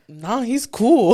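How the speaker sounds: laughing quote. Retold or imitated. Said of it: "And Rob's like".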